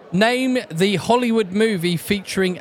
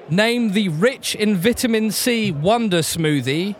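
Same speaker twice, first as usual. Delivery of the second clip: quiz host reading. Acted. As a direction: read it out like a pub quizmaster. Quizmaster reads a question.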